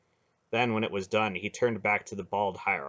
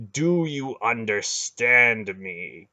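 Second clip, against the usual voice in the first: slow, louder repeated demand; harder menacing demand; 5 dB louder, much slower than usual. Acted. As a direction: press it harder the second time. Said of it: "Garen repeated".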